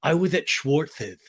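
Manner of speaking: slow, lightly mocked Sandoval line; Sandoval impression. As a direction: stretch it out as a mild imitation. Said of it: "And he's like".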